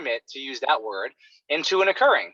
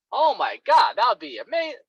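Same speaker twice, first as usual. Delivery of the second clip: excited client; 7 semitones higher, 3 dB louder than usual. Retold or imitated. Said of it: "whatever they're gonna say".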